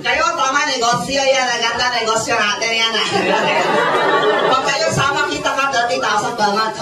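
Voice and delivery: a hint of a Taiwanese speaker's broken Tagalog; mock Chinese-accented Tagalog. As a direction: lightly imitate a Taiwanese recruiter straining at Tagalog. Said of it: "nagpupumilit pag Tagalog".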